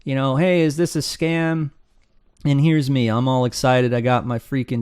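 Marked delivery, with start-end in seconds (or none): 0.4-1.7 skeptical guy. Retold or imitated. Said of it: "Here's Mister Skeptical".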